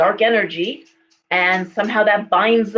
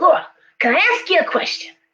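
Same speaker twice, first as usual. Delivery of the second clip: put-on high-pitched New York accent; 9 semitones higher than usual. Retelling a friend's phone call to her, imitating Megan's New York accent. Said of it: "she had this like wonderful New York accent".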